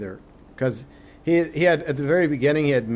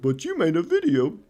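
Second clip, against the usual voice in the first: higher-pitched mock objector; mimicked objection; 5 semitones higher than usual. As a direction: lightly put on a complainer's voice. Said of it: "some people are like".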